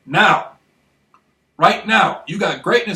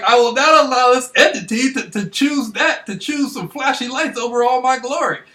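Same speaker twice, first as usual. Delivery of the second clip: higher, louder proclamation; defiant declaration; 7 semitones higher, 5 dB louder than usual. Retold or imitated. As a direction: announce it like a vow. Defiant vow at taxi's lights.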